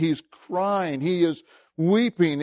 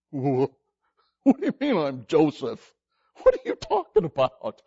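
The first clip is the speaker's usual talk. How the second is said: scared brothers; 5 semitones lower than usual. Acted. Brothers panicking, confronted by Joseph.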